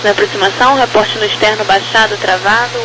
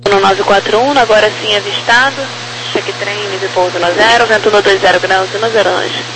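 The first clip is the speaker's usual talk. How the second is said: over the radio; 7 semitones higher than usual. Real, not acted. Tower clearing landing by radio.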